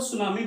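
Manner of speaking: सुनामी starting straight on S; silent T. Shown as a demonstration. Teacher correcting students' pronunciation, silent T. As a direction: say सुनामी with no T before it. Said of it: "टी silent होता है".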